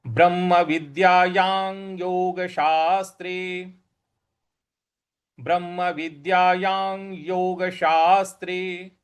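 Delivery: ब्रह्म विद्यायां योग शास्त्रे read slowly; careful recitation. Shown as a demonstration. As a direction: enunciate each Sanskrit word. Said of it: "इस प्रकार से हम इसका उच्चारण".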